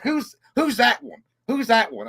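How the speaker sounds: high, slow Kentucky redneck question; redneck barber asking. Retold or imitated. Old barber asking about the singer in a Kentucky redneck accent. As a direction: puzzle over the name like a country barber. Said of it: "real redneck like that".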